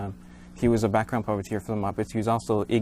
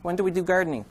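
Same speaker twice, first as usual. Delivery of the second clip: goofy muffled sock puppet; 5 semitones higher than usual. Acted. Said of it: "puppet voice".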